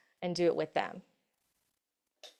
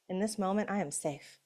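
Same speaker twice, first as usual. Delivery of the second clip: calm affirmation; 6 dB quieter than usual. Shown as a demonstration. Affirmation at home alone.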